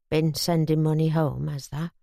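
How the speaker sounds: a hint of a softened, tipsy boss; softened gruff Yorkshireman. Reg softens toward Bobby.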